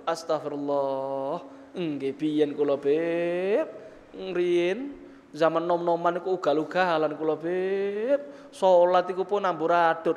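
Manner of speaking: hushed penitent confession. Acted. Penitent admits wild youth to God, low hushed confession. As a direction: confess humbly, voice dropped low and soft.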